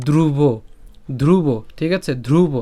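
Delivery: ধ্রুব with a forceful breathy "dh", not "d"; teacher's careful demo of ধ্রুব, isolated; pressed aspirate. Shown as a demonstration. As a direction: press hard on the dh that opens ধ্রুব. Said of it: "জোর তো দিতে হবে".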